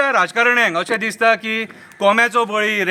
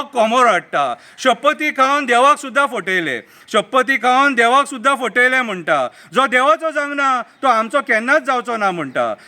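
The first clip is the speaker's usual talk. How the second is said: measured satirical verse recital; mocking political poem read aloud; poem recitation; 3 semitones higher than usual. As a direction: recite it as rhythmic verse, letting the line endings fall.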